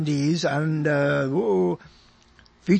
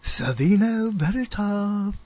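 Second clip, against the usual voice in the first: Boris Karloff; 2 semitones higher, slower than usual. Retold or imitated. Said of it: "you say it like Boris Karloff".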